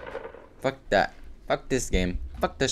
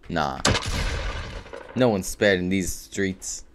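mock-tough drawl; 7 semitones lower, 4 dB quieter, slower than usual. Dramatic line.

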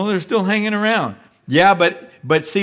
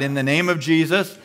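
bold declaration; 4 semitones higher than usual. Shown as a demonstration. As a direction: proclaim it with growing conviction. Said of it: "Just say it out loud".

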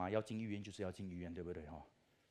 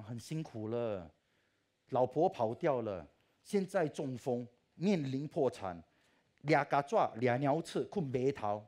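exasperated complaint; 7 dB louder, slower than usual. Retold or imitated. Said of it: "我讲".

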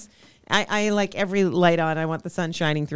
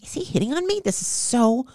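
mock puzzled surprise; 5 semitones higher than usual. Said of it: "So I'm like".

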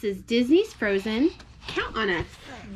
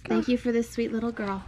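bedtime prayer. Real, not acted.

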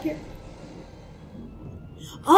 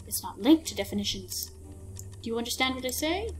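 lightly lowered mysterious gentleman; calm, knowing guide voice, a bit softer; Mister Midnight voice; 4 dB quieter than usual. Acted. Ship captain explaining the ultra reality to a girl, lightly lowered and calm.

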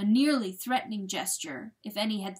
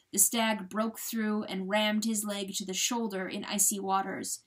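usual speaking voice

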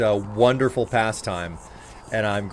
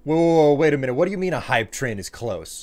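excited alarm. Real, not acted. Hype train alarm.

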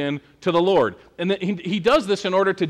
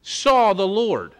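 stunned; 3 semitones higher than usual. Retold or imitated. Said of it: "he's gotta be thinking".

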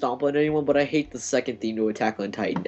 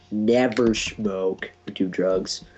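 PSA announcer voice; 3 semitones lower, much slower than usual. Retold or imitated. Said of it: "Just like those creepy commercials".

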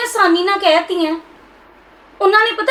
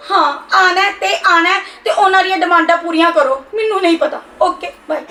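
tearful, insistent sign-off; upset daughter ending a call. Acted. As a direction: insist through tears, then hang up. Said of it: "ਤੂੰ ਰੋ ਨਾ".

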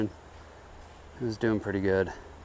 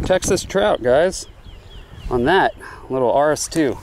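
excited; 6 semitones higher, 5 dB louder than usual. Real, not acted. Showing off a caught trout.

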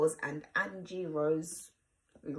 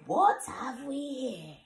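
ogre voice; 7 semitones higher than usual. Acted. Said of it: "Should I use an ogre voice?".

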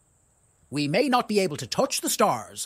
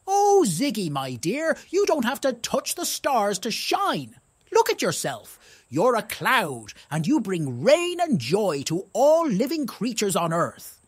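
a hint of a gentle wise owl giving advice; wise old owl; 3 semitones higher than usual. Wise owl comforts Ziggy the cloud, lightly voiced and kindly. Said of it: "a wise old owl hooted from a nearby tree".

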